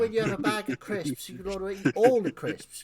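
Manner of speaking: high, loud, chatty creature voice; snack-minded dragon. Acted. Dragon explains children are snacks.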